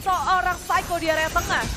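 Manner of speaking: excited shout. Real, not acted. Live play-by-play.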